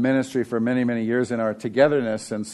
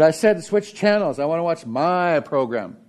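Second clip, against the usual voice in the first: bossy Lucy; 4 semitones higher than usual. Retold or imitated. Lucy repeats demand to Linus.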